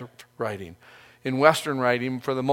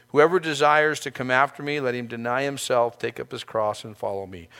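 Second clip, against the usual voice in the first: quoting Jesus. Retold or imitated. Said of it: "what he says as an instructive point".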